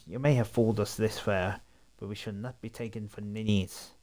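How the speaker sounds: haughty upper-class English gent; posh English bloke. Acted. Perry sizing up the strangers, haughty English voice. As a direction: look down your nose, very proper. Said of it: "He's gonna be the English bloke".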